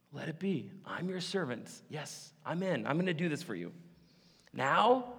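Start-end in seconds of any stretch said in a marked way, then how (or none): 0.1-3.7 soft whispered surrender; humble Mary. Retold or imitated. Mary answering the angel, softly whispered. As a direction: yield quietly to God. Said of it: "what was her response".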